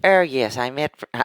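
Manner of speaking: soft, posh Mosman accent; refined Sydney-suburb Australian. Shown as a demonstration. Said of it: "like, posh. So if you're from the Mosman".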